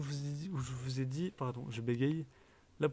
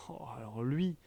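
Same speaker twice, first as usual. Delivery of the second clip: dreading whisper. Real, not acted. Whispering before naming a villager she dislikes. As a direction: drop to a whisper as if something is bad.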